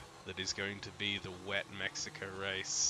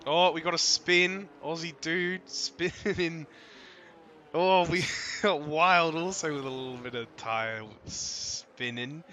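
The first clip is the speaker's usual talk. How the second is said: excited; 7 semitones higher, 8 dB louder than usual. Real, not acted. Live race play-by-play on stream.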